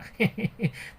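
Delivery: mocking little laugh; teasing giggle. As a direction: giggle playfully at your own tease. Teases about getting old.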